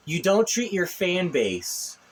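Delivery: talking with slipping dentures; words round loose false teeth. Real, not acted. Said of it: "sorry, my, my dentures are messing up".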